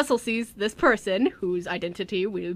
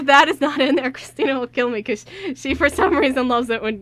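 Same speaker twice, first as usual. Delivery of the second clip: alarmed; 3 semitones higher, 8 dB louder than usual. Retold or imitated. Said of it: "I'm like".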